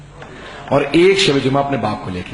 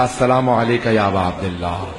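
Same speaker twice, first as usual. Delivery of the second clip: trembling greeting; 5 semitones lower than usual. Retold or imitated. Exhausted son greeting the Imam's shrine with a mild tremble. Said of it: "کانپتا ہوا میں نے کہا".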